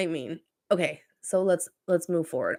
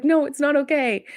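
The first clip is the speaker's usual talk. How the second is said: higher and sharper, flat refusal; hammed-up huffy no; mock indignant reply; 9 semitones higher, 4 dB louder than usual. Bill Burr refusing a singer, hammed-up huffy voice.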